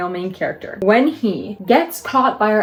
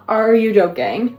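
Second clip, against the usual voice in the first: excited disbelief. Real, not acted. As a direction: push it up, thrilled disbelief. Repeats the question louder.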